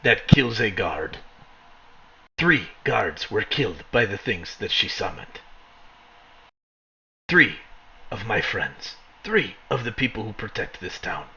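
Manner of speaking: lightly voiced grim enforcer, measured and deliberate; slow, pointed delivery with falling stresses; stern town enforcer. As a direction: let each count land with restrained menace. Game master voices Izek.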